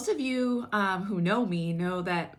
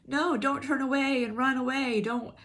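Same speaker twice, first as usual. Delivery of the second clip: urging plea; 3 semitones higher than usual. Retold or imitated. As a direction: urge them not to look away.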